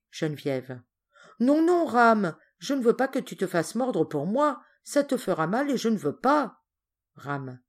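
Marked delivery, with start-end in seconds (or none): 1.4-6.6 higher, emphatic refusal; anxious protest. Acted. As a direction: protest firmly out of concern. Girl refuses to let him.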